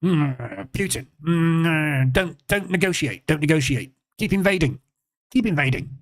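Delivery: lightly parodied bumbling politician; mumbled, spluttering lead-in, then repeated mock orders; Boris. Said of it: "He's just a bumbling idiot".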